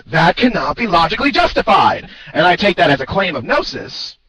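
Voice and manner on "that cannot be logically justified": raised, higher shouty declaration. Retold or imitated. Quoting the opponent's claim, mock shouty voice. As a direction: belt it out like a challenge. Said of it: "in a rather shouty voice".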